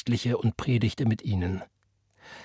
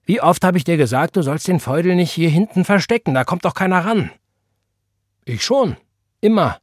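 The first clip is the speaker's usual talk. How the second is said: teasing quarrel; 7 semitones higher, 6 dB louder than usual. A narrator's reading. Quarrel over the mop.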